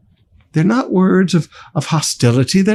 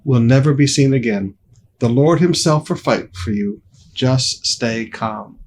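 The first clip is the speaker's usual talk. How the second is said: calm reassurance; 3 semitones lower than usual. Acted. Moses calming the frightened people, low reassuring voice. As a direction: settle them gently, slowing at the end. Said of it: "So he calms them down".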